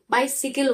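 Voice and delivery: बाइसिकल with a short si; बाइसिकल, "bai-si-kal"; correct pronunciation. Shown as a demonstration. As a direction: repeat the right form, बाइसिकल. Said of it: "not बाईसाइकिल".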